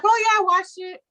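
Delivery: high, loud put-on agreement; breezy daughter, imitated. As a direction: brush mom off in a high voice. Daughter brushing off mom's question.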